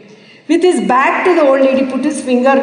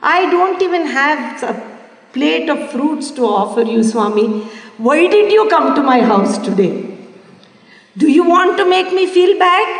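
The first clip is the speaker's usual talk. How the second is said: tearful plea; 4 semitones higher than usual. Retold or imitated. Old woman's tearful plea to Swami.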